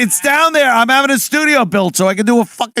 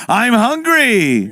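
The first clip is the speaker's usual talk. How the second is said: put-on Jewish accent; 4 semitones higher, slower than usual. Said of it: "Jewish voice impression".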